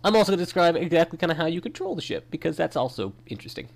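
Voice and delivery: talking through sniffles from a cold; sniffly, stuffed-up speech; sniffling. Real, not acted. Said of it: "excuse all the sniffling".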